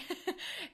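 short high giggle; brief light laugh; little giggle. Real, not acted. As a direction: let out a quick, high laugh. Laughs after describing the wand.

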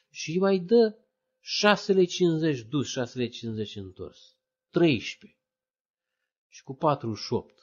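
a high, scoffing tally of lei; a hint of a scornful friend doing sums; mocking friends. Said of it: "și prietenii mă judecau".

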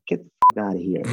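loud, incredulous exclamation; retold disbelief. Telling a podcast host how he reacted to the Cork customer, loud and incredulous. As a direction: blurt it out in total disbelief.

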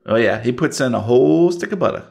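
Southern diner waitress listing the menu. Acted. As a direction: rattle off the specials in a Southern accent. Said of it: "Southern one minute and Cajun the next".

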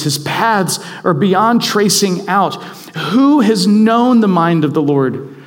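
slow, solemn scripture read over music. Acted. Preacher reading Romans aloud to the congregation, solemn. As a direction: read it reverently, letting it swell.

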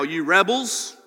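frustrated. Acted. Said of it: "I read it like that".

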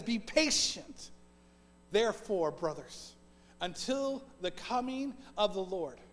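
measured, deliberate reading of the verses; solemn Bible reading in a sermon; scripture reading. Acted. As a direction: read the passage with weight. Reads James chapter five.

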